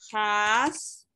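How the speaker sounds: "Jas" sounded out alone, drawn out; first syllable "Jas" held on its own; single syllable. Shown as a demonstration. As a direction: dictate "Jas" as a separate syllable. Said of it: "Se divide en dos sílabas".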